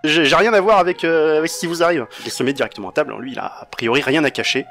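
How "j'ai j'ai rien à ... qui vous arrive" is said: nervous informant. Acted. GM voices the captured informant.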